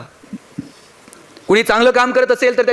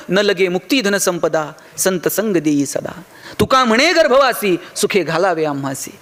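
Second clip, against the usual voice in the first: slow devotional verse, falling at line ends; verse recitation; 3 semitones lower than usual. Acted. Tukaram declining wealth and liberation, slow reverent recitation. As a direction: recite the abhang unhurriedly.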